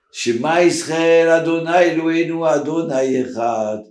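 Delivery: slow, drawn-out prayer; prayer recitation. Retold or imitated. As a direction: recite it solemnly, stretching the words. Recites the Shema to the minister. (קריאת שמע מתמשכת)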